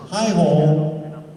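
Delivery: high, loud frog puppet greeting; Kermit greeting. Shown as a demonstration. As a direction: chirp out hi ho like Kermit. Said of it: "it goes like this".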